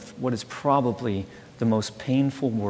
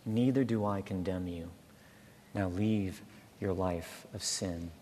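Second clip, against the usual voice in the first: gently; 2 semitones lower, 5 dB quieter than usual. Acted. Jesus forgiving the woman, gentle and soft. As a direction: lay the words down softly, like a release. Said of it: "he says gently to you".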